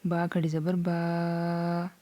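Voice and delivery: slow, stretched recitation. Shown as a demonstration. Teacher reciting the lesson to students, slow. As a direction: lengthen the vowel slowly. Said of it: "अभी हम quickly से पढ़ लेते हैं".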